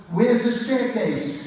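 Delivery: high, slow, drawn-out calling out; urgent call. Retold or imitated. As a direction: call the question out high and slow, lost in the dark. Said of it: "All of a sudden I go".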